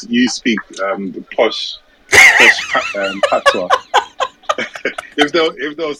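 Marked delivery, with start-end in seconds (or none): 2.1-3.8 laughing through the words, much higher. Real, not acted. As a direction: crack up mid-word. Laughing about posh patois.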